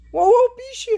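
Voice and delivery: high startled laugh-cry; laughing in panic. Real, not acted. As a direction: shriek and laugh at once. Caught by the granny. (rindo em pânico)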